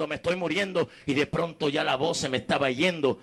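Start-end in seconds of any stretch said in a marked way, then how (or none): 0.1-0.9 yelling that he is dying; crying out. Retold or imitated. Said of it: "Empecé a gritar". (gritando que se muere, más agudo)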